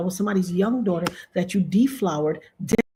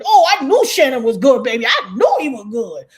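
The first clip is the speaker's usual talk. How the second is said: mock praise; 3 semitones higher, 7 dB louder than usual. Imagined crowd praising Shannon.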